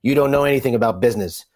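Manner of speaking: lightly imitated gruff smoker's voice; a hint of a raspy old father; smoker's rasp. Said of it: "I can channel his kinda smoker's, uh, voice".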